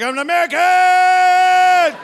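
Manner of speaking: hammed-up American accent, slow and shouted; mock American accent. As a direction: play a brash drunk American at the gate. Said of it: "I got the same accent".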